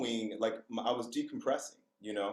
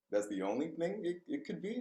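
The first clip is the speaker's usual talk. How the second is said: softer, rising questioning repeat; incredulous echo; 4 semitones higher, 4 dB quieter than usual. Retold or imitated. Speaker answering school staff's accusation, incredulous. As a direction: echo it in disbelief, climbing high at the end.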